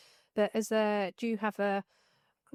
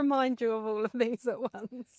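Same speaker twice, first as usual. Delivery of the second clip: higher, louder mock inner voice; nagging brain voice; 4 semitones higher, 4 dB louder than usual. Coach voices the brain at four a.m., mock announcing. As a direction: play the brain kicking in, with a laugh midway. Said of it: "where my brain kicks in".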